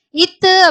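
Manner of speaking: "இத்து" sounded out as the TH letter sound; demonstrated TH sound. Shown as a demonstration. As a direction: give "இத்து" as an isolated teaching sound. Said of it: "அப்படின்ற sound". ("இத்து" என்று TH ஒலியை தனியாக உச்சரித்து)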